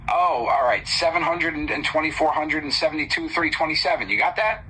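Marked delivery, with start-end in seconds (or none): 0.9-4.1 fast number read. Acted. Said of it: "I need you to repeat that slowly".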